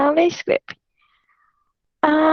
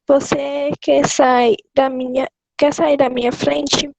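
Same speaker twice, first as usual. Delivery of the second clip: order. Shown as a demonstration. Reader shows a question working as a command, firm. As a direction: question said as a command, slightly slowed. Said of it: "Uma pergunta pode ser também uma ordem".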